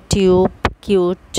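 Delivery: টিউব, কিউট with a long 'yoo'; long u sound. Shown as a demonstration. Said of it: "long sound ইউ উচ্চারণ হয়". (টিউব কিউট-এ লম্বা ইউ ধ্বনি)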